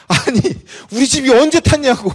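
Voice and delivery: high, loud, exasperated retort; indignant outburst. Retold or imitated. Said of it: "또 열이 받은 거예요".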